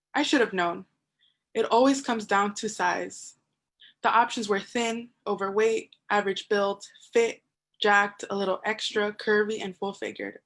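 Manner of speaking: spoken-word storytelling in measured phrases; lightly performed poem, list items set apart; poetry recitation. Acted. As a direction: recite it as a wry personal poem.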